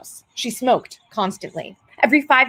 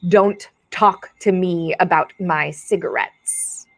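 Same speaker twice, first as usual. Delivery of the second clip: slow, low quoted warning; 6 semitones lower, slower than usual. Acted. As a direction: say it slowly and low, shutting down the subject. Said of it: "with this look of".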